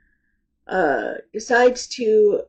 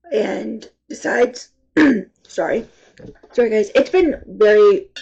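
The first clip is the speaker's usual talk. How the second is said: stuffy sinus voice, throat clearing; talking through blocked sinuses; congested voice; 4 dB louder than usual. Real, not acted. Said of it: "I sound like a dying squirrel".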